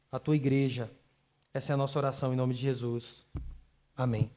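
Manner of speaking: subdued, even-toned prayer. Real, not acted. Pastor prays to the Lord for his church, reverent prayer.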